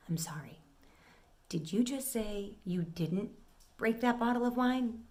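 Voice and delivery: dropping to a near whisper, slow and quiet; quietly menacing, slowing right down; voice drops low. Retold or imitated. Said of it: "my voice drops".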